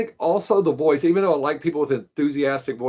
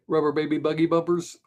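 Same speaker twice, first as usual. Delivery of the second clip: put-on rubber baby buggy bumpers in a steady even announcer tone; tongue twister; 3 semitones higher than usual. Shown as a demonstration. Running the DJ diction drill again. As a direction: rattle it off evenly like a DJ. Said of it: "so ready".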